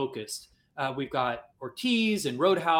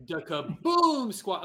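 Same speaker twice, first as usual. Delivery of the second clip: slow, higher-pitched stretched BOOM; playful booming name; 5 semitones higher, much slower than usual. Pretend. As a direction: draw out "Kaboom" in fun. Repeats the booming name for fun.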